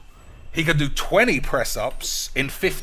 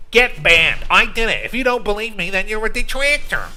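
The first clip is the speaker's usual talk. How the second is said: indignant rant; 7 semitones higher, 6 dB louder than usual. Real, not acted. Ranting at chat.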